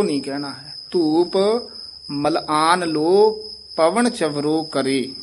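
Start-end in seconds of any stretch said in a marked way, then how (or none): 2.1-3.4 slow ਮਲ ਆਨ said as one word with no break; joined phrase. Shown as a demonstration. Teacher correcting the student's reading, slow joined ਮਲ ਆਨ. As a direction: run ਮਲ ਆਨ together, then ਲੋ. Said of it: "ਮਲ ਆਨ ਲੋ ਬੋਲਣਾ ਹੈ".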